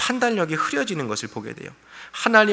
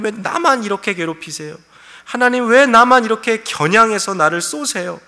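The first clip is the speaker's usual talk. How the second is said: aggrieved complaint; 4 semitones higher, 3 dB louder than usual. Retold or imitated. Pastor voicing Job's complaint.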